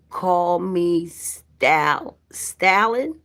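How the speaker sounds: "Stal-" drawn out slowly, then "Stalin" rising as a question; tentative name-reading. Real, not acted. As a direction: sound out "Stalin" slowly, unsure, lifting at the end. Trying out a viewer's name.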